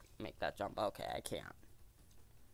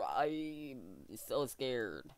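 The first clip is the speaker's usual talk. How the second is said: mock scared; 6 dB quieter, much slower than usual. Sarcastic fear toward monster.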